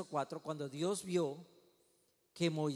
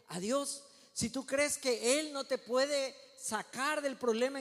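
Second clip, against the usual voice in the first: higher, driving pulpit cadence; insistent preaching; 5 semitones higher, 3 dB louder than usual. Real, not acted. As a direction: build repeated phrases with firm conviction. Preaches in rising, repeated phrases.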